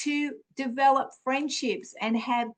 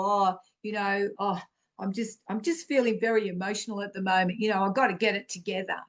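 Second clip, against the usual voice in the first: fast, dismissive mock voice, rattled off; mock fretful woman; 3 semitones lower, much faster than usual. Preacher mocking women who dismiss their emotions, fast and dismissive. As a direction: brush your own tears aside in a hurried put-on voice. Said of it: "Please, ladies, don't go".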